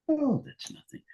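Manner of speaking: high, light, carefree quoted voice; breezy high dismissal. Retold or imitated. Old friend brushing off his own dying, high and breezy. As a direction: toss it off like it's nothing. Dying man shrugs off death.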